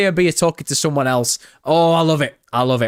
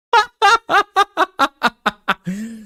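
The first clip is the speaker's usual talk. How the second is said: loud high-pitched rising laugh; 5 dB louder than usual. Real, not acted. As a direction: laugh out at the chat joke. Streamer laughs at chat message.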